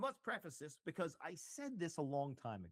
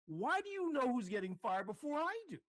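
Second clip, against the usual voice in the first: surprised; 9 semitones higher, 6 dB louder than usual. Retold or imitated. Indignant question to crying girl.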